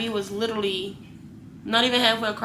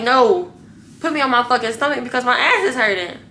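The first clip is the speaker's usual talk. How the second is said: retold annoyed demand, a little raised; mildly heated mock demand; pissed off; 3 semitones higher, 5 dB louder than usual. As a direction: snap it back as a fed-up patient, not full force. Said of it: "So I was pissed off".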